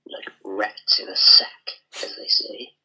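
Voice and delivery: hissed gloating whisper; sinister whisper. Acted. Henchman gloating to his lord in a sinister whisper. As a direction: breathe it out like a pleased villain.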